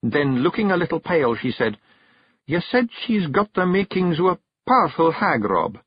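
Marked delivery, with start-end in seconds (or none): 2.5-5.8 higher Scottish firm wife; stern Kelda. Acted. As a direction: lay down the law. Jeanie's verdict.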